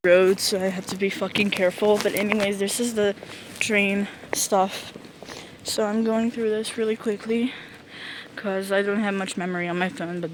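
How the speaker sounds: talking through a dust mask; muffled voice behind a mask. Real, not acted. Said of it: "the video gets muffled all of a sudden".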